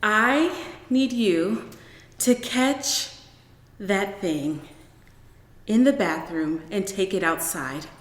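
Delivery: slow, careful, forcing herself to stay calm; forced calm. Acted. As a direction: talk him through it slowly. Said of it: "trying to calm herself".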